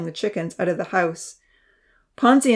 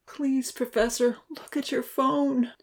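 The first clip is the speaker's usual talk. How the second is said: soft, slow, higher pleading; silent plea; 6 semitones higher, 5 dB quieter, slower than usual. A narrator's reading. Uncle Louis silently begging the Professor, soft plea. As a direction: beg quietly under your breath. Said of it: "he pleaded silently".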